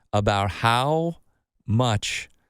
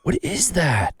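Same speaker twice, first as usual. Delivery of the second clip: surprised; 6 semitones higher than usual. Retold or imitated. Retelling finding thing under nail.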